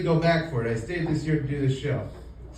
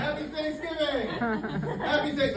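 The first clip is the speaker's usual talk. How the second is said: cheerful yell; 11 semitones higher, 5 dB quieter than usual. Retold or imitated. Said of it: "the more I would yell".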